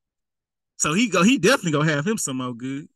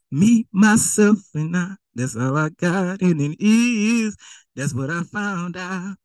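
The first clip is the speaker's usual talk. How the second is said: slow, drawn-out smug boast; self-satisfied tone; slower than usual. Acted. Preacher voicing the rich fool's smug self-talk. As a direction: savor each word like you need nobody. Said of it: "that's your tone to your life".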